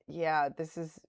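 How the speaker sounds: slow Boston "this is wicked choppy"; Boston accent. Shown as a demonstration. Streamer teasing herself with a Boston accent. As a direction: drag out the Boston phrase playfully. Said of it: "I can't believe it".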